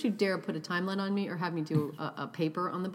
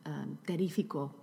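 showing off Spanish. Shown as a demonstration. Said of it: "hablo un poquito de español".

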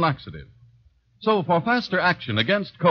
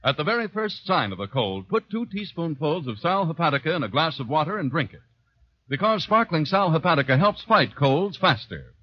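earnest commercial announcer; ad read; 2 semitones lower than usual. Acted. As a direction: sell it like a radio ad.

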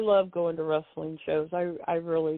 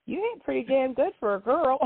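quoting the wrestler; 8 semitones higher than usual. Retold or imitated. Wrestler's joking compliment quoted.

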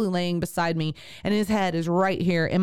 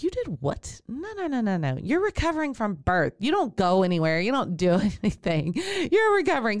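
mock scolding; 3 semitones higher than usual. Midwife scolding after shopping trip.

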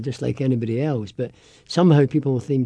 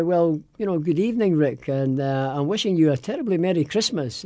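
put-on a light posh English accent, a bit higher; posh translation; 4 semitones higher than usual. Translating the Glaswegian for Rick, in a light posh English accent. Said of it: "it was saying".

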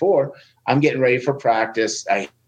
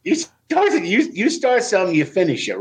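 playful emphasis; 9 semitones higher than usual. Real, not acted. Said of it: "laughing, teasing motto".

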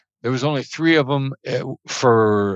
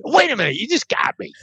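surprised realization; 11 semitones higher, faster than usual. Retold or imitated. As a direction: catch yourself mid-sentence, laughing. Colleague realizes he was mirrored.

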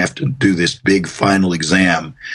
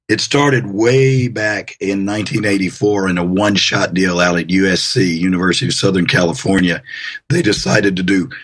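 allergy-roughened voice. Real, not acted. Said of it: "excuse my voice, I'm fighting allergies".

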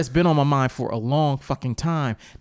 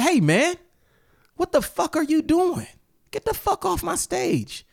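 retold yelling. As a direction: bark him off the stage. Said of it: "I said".

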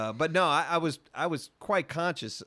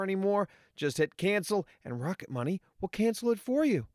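upbeat sponsor read, raised pitch; 3 semitones higher than usual. Acted. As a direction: pitch the app like a commercial.

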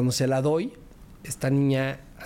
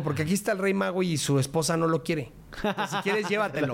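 joking tease; 4 semitones higher than usual. Retold or imitated. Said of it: "me gusta hacer bromas".

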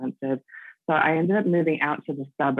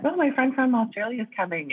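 mock eager announcement; 6 semitones higher than usual. Guest voices people expecting an accent.

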